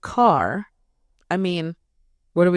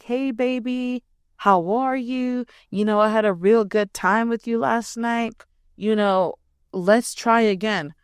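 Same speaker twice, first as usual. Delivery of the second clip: sweet-talking man; 4 semitones higher than usual. Retold or imitated. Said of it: "He's like".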